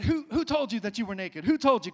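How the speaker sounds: shouted high and loud, the first who doubled; booming divine demand. Acted. Preacher as God shouting at Adam, booming question.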